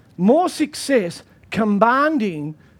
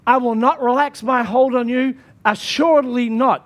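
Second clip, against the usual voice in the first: emphatic preaching; 2 semitones higher than usual. Acted. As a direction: preach the promise like a vow. Preaching the verse with force.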